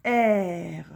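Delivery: "R" said as a long "èèr"; "R" drawn out as a blended syllable; syllable sounded out. Shown as a demonstration. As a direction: hold the open "è", then close on r for "R". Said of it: "ça va faire le son est".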